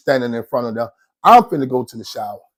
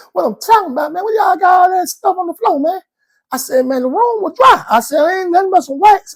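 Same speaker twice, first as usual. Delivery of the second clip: heated exchange; 3 dB louder than usual. Retold or imitated. Heated back-and-forth about the floor.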